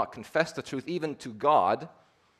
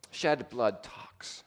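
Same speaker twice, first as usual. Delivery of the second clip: quiet repeat; 6 dB quieter, much slower than usual. Shown as a demonstration. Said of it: "You see, shed blood talks".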